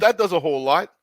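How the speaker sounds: mid-yawn speech; words stretched by a yawn. Real, not acted. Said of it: "Sorry for the yawning".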